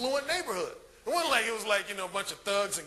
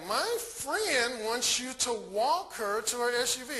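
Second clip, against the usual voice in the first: Sherry; 3 semitones higher, slower than usual. Retold or imitated. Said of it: "And Sherry's like".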